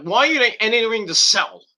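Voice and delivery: high-pitched indignant question. Acted. Viewer objecting to officials entering the cell, indignant. Acted outraged reaction to officials.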